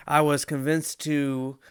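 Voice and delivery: hiccuping while talking; hiccups. Real, not acted. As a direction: hiccup cuts the sentence. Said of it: "I got the hiccups".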